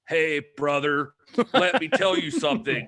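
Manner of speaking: hammed-up Southern accent, leaning on brother. Guest imitating a British wrestler's mock Southern promo voice, in a Southern accent. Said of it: "a British person doing a Southern accent".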